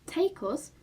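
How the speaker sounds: strange hollow voice. A narrator's reading. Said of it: "in a strange, hollow voice".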